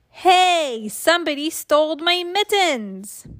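put-on high-pitched child's complaint; alarmed outcry. A narrator's reading. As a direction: cry out that you've been robbed. Child discovers mittens are stolen.

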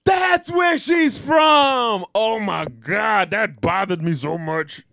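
slow, shouted monster growl; Cookie Monster voice. Acted. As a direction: drag it out like a hungry monster. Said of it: "Why did I do the Cookie Monster voice".

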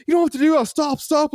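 high-pitched mock pleading; retold distressed plea. Mate pleading with the guard, imitated distress. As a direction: imitate someone begging for a beating to stop. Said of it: "he was, like, screaming".

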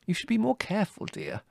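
high-pitched motherly reproof; chiding mother. A narrator's reading. Mother warning her careless son, gently chiding. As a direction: chide gently in a high voice, dropping off on dear.

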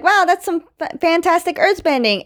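high-pitched wowed retelling; mock amazement. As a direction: act impressed, pitch lifted well up. Acting Aang admiring the earthbending.

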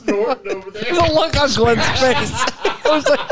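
high, slow, laughing through it; can't stop laughing. Real, not acted. Laughing about Glenn's face.

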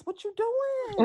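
high, drawn-out disbelief; incredulous question. Retold or imitated. Host calling out the passenger's behavior, incredulous. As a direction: stretch it out high, as if scolding.

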